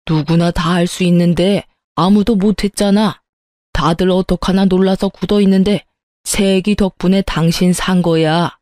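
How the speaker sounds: lightly voiced chiding old husband; scolding father-in-law. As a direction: gently put on a reproving father-in-law. Father-in-law scolds his wife. (살짝 나무라는 시아버지 말투)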